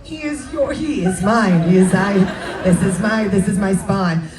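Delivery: laughing. Real, not acted. Host laughing, mocking answer.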